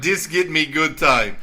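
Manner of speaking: broken English in a mock Russian accent; joking Russian accent. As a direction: play a cartoonish Russian tourist. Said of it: "I don't know why I'm Russian all of a sudden".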